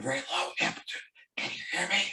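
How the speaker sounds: very soft, hushed voice, talking quickly. Explaining sound amplitude and hearing, the speaker demonstrates a very soft voice. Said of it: "I'm talking very softly".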